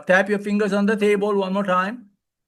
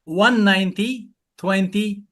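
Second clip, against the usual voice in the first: slow, spaced digits; slow number dictation; slower than usual. Shown as a demonstration. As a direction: say each digit slowly and clearly. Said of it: "I'd like you to remember a number".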